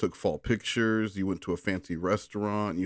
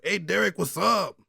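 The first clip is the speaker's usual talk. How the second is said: much higher put-on vampire voice; Latino vampire voice; 10 semitones higher, 3 dB louder than usual. Brother voicing Aaron as a Latino vampire. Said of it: "non-racist Latino vampire could be Aaron".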